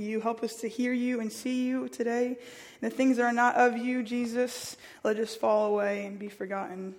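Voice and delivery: earnest spoken prayer to open; leading a church prayer. Real, not acted. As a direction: pray aloud for the congregation. Leads opening prayer.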